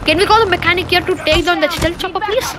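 high-pitched playful plea; whiny-pitched appeal for help; mock pleading. Begging for help against chopper.

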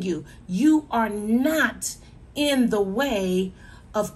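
earnest sermon delivery, slowing on key words; preaching. Acted. Preacher urging a listener living in sin, earnest. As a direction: press each point home to the congregation.

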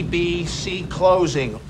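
ordinary talk, nothing marked

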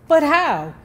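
mildly voiced helpless question. A narrator's reading. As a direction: ask it lost and at a loss. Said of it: "Kenneth asked helplessly".

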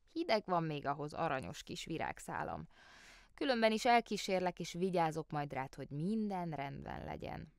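put-on the old aunt fussing over her nephew; doting aunt. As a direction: coo over him like a little child. Aunt coddles her grown nephew.

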